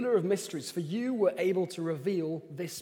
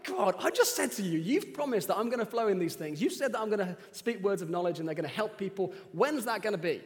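raised, higher frustrated complaint to God; exasperated plea, voice lifted and pushed; frustrated rant at God; 3 semitones higher, 4 dB louder than usual. Retold or imitated. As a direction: let the frustration spill out, pitched up and louder. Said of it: "I'm in a bit of a rant".

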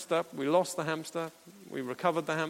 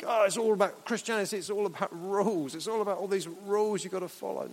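mocking complaint; 3 semitones higher, faster than usual. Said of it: "so many see".

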